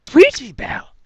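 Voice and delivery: high, loud cry of the name; shocked exclamation. A narrator's reading. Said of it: "exclaimed Rarity".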